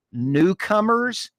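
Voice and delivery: newcomers stretched slow and high; mocking the official's word; mocking quote. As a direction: sneer the word newcomers out slowly. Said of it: "is what you called them".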